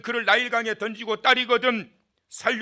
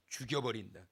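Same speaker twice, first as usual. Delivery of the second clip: muttered threat; 8 semitones lower, 13 dB quieter than usual. Acted. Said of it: "저놈 죽여버려야".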